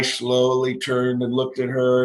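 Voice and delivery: slow, deliberate comic build-up; slow-motion storytelling; drawn-out slow telling. Retold or imitated. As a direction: stretch it out like a slow turn of the head. Mirrors the slow head turn.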